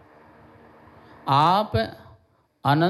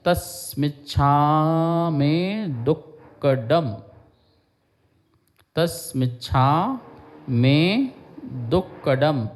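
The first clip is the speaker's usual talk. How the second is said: reciting monk; slower than usual. Retold or imitated. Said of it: "हर समय बोलते हैं".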